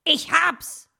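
loud, high burst of inspiration; sudden exclamation. A narrator's reading. Fox startles dreaming Dominik with an idea, sudden excited cry. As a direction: cry out to jolt someone from a daydream. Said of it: "riss ihn Herr Fuchs aus seinen Träumen".

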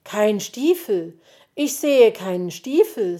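loud, mildly dismayed disappointment; disappointed. A narrator's reading. Magpie finding no boots, disappointed. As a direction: lean hard on the missing boots, let down. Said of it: "sagte sie enttäuscht".

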